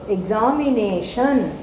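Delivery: examination with the stress on the third syllable; Punjabi-style examination; Punjabi accent. Shown as a demonstration. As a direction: say it the way a Punjabi speaker would. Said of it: "If I am a Punjabi, I tend to say".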